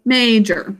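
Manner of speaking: major with MA stressed; major, MA-jor. Shown as a demonstration. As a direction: lean on the first syllable of major. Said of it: "emphasis on the first syllable".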